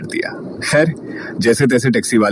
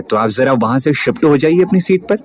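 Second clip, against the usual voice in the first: loud harsh voice. Acted. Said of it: "एकदम बुलंद और कर्कश आवाज में लड़की ने बोला".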